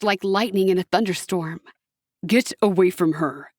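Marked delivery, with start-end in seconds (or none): 2.3-3.5 low, forceful shout. A narrator's reading. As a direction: bark it at him to back off. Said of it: "he shouted at Kerubiel".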